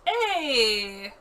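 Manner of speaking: loud sharp cry; protesting shout. Real, not acted. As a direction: yell in protest. Pet ate the poison.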